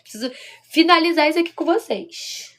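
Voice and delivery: quick whispered aside to the viewers. Real, not acted. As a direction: drop to a whisper as if sharing a secret. Hurrying to end the live.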